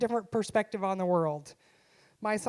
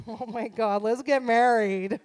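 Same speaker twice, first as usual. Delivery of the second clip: mock gushing; 6 dB louder, slower than usual. Instantly smitten by compliment.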